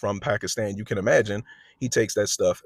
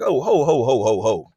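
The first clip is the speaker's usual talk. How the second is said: louder mock alarm, oh ho ho; a hammed-up startled whoa; officer breaking up a fight, loud oh ho ho; 6 dB louder than usual. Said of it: "And I'm like".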